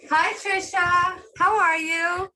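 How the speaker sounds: put-on high, loud, babyish greeting; patronizing high voice. Shown as a demonstration. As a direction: sound sugary and talk down to her. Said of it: "That's pretty annoying".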